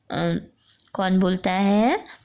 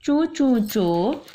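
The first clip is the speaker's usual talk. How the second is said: scolding hush that stalls and stumbles, higher and slow; halting scold; 4 semitones higher, slower than usual. Acted. Father caught mid-scold, a stammering stop. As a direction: start to scold, then choke it back. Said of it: "अब्बा डांटते डांटते रुक गए".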